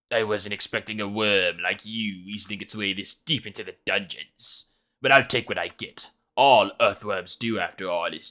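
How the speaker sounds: slow, taunting villain voice; sneering wizard. Acted. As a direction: look down on the little worm. Reads the wizard's taunting lines.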